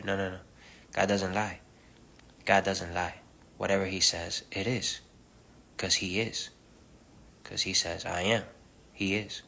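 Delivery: fervent preaching. Acted. Preaching to her viewers, fervent and loud. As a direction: press each line home like a pulpit.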